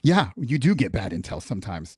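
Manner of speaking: ordinary talk, nothing marked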